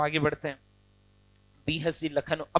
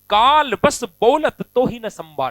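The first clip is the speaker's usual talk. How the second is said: angry warning; 6 dB louder than usual. Acted. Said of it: "गुस्से में आ गए".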